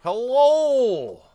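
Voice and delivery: high, swooping call; calling hello. Real, not acted. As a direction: call out high to check who's there. Calling to an unresponsive winner.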